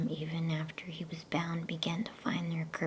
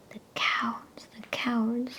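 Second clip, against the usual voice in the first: whispered sob, pitched higher; sobbing; 7 semitones higher than usual. A narrator's reading. Susan weeping over the bound lion, a higher whispered sob. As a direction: catch the breath as if close to tears. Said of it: "sobbed Susan".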